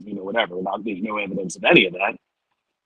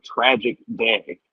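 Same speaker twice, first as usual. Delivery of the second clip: sarcastic air quotes; slower than usual. Retold or imitated.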